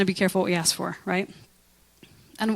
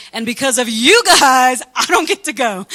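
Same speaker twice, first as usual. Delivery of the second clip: imitating bitter Moses; 3 semitones higher, 6 dB louder than usual. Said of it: "He's like".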